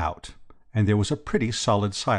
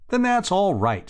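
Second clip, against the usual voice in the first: high, hearty reassurance; 11 semitones higher, 4 dB louder than usual. A narrator's reading. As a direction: brush the doubt away heartily. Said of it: "said the chappie heartily".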